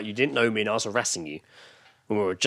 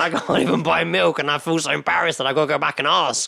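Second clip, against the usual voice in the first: mock self-pity; 6 semitones higher, 3 dB louder than usual. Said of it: "It was more like".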